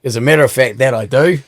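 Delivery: lightly attempted Indian accent; unconvincing hint of an Indian accent; bad Indian accent. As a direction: have a half-hearted go at an Indian accent. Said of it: "I can't do the accent".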